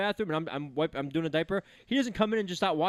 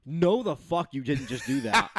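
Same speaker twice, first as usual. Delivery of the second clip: laughing mock outrage; 4 semitones lower, slower than usual. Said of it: "she was like".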